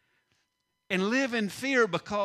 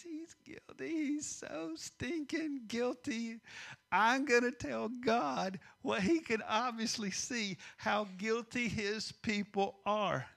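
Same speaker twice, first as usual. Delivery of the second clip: slow, higher accusing enemy voice; confident enemy; 5 semitones higher, 4 dB quieter, slower than usual. Acted. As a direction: gloat slowly, drawing out the accusation. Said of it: "imagine the confidence of the enemy".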